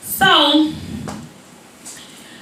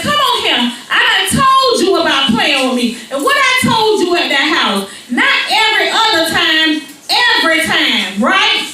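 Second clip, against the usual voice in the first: tag; 4 semitones higher than usual. Retold or imitated. Mother scolds child in story.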